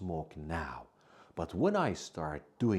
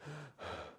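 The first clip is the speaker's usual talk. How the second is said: demo sigh; 9 semitones higher, 12 dB quieter than usual. Shown as a demonstration. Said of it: "I'm out of breath means I can't breathe".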